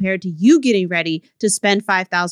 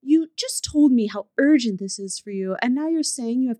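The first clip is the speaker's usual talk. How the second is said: woman professional's voice; 4 semitones higher than usual. Acted. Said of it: "a woman professional's blog. So she goes".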